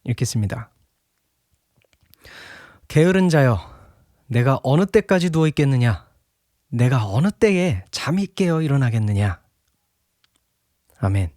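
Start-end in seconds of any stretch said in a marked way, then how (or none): 2.9-9.4 solemn scripture read-aloud. Acted. Preacher reading Proverbs to the congregation, declaimed scripture reading. Reads the Bible verse aloud.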